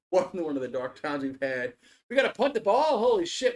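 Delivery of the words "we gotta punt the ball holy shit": high, loud disbelief at fourth down; exasperated outcry. Real, not acted. Fan at the TV yelling in dismay that they must punt. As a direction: groan it out as your team stalls. Frustrated fan watching his team.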